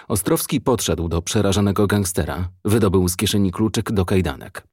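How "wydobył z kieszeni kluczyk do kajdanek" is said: ordinary delivery, nothing marked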